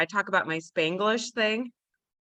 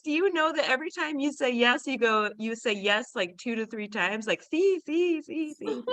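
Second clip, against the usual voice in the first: quoting Bruce; 4 semitones higher than usual. Retold or imitated. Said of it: "Bruce always says".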